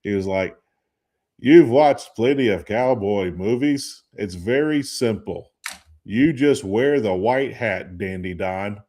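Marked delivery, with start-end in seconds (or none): 1.4-8.8 lightly imitated New York Jewish accent, slow and deliberate; a hint of a New York Jewish accent, spelling it out slowly; New York accent imitation. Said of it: "in his New York City accent, you know, Jewish accent".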